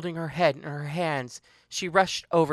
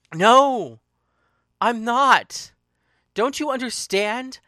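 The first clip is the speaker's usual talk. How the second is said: high, loud refusal; anguished protest; 5 semitones higher, 5 dB louder, slower than usual. Acted. She refuses to be Paris, loud anguished protest. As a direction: burst out in protest, pitched up. Acted quarrel, refusing the name.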